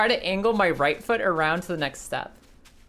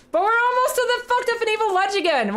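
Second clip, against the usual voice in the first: excited dread; 3 dB louder than usual. Real, not acted. Dreading the deadly ledge ahead.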